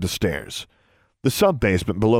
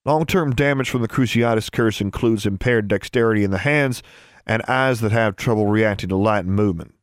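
even, clinical listing; textbook recital. A narrator's reading. Boy explaining curse damage to her, reciting it clinically. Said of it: "sounding as if he were reciting from a textbook".

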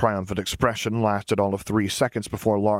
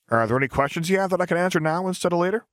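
put-on cheerful young engineer; 9 semitones higher, faster than usual. Lars asks for questions.

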